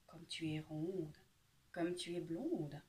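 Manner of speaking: sly fox. Acted. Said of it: "dit le malin renard".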